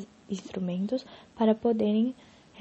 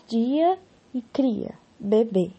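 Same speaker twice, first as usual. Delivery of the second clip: slow example; much slower than usual. Shown as a demonstration. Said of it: "no segundo verso".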